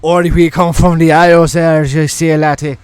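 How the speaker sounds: mock Irish lilt; Irish accent. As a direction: toss off a pub Irish line. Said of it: "Irish Spirit".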